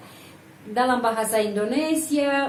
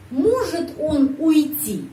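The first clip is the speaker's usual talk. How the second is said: slow, high question with "Может" stressed; question intonation demo; 5 semitones higher, 3 dB louder, slower than usual. Shown as a demonstration. Teacher models asking whether he may leave, slow stressed "Может". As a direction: stretch the question, leaning on "Может". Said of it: "Penekanan intonasi pada kata можешь".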